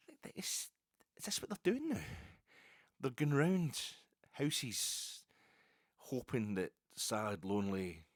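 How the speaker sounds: mock astonishment, pitch shooting up; incredulous. Real, not acted. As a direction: voice jumps high in disbelief. Incredulous realisation.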